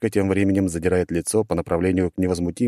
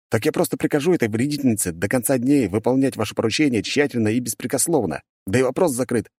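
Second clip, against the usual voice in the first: smug suggestion; 4 semitones higher than usual. Acted. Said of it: "предлагает он".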